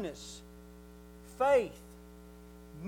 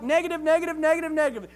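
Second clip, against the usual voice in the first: building emphasis; 4 semitones higher, 6 dB louder, faster than usual. Acted. Repeats negative with rising force.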